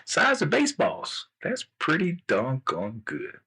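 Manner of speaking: slow, impressed king; lightly voiced king, drawn-out approval. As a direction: appraise it slowly, savoring each word. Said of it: "the king said".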